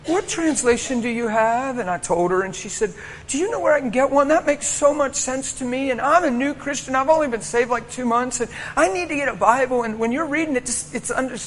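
a hint of an eager new believer asking; young girl's voice. Preacher quoting the young girl after service, lightly girlish. Nine-year-old girl quoted in story.

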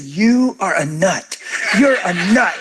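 slow, laughing you are a nut; a light fond jab; laughing mock insult. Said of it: "he said".

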